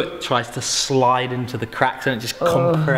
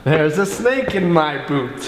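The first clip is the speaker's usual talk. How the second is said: cowboy quote. Pretend. Quoting Woody cowboy line.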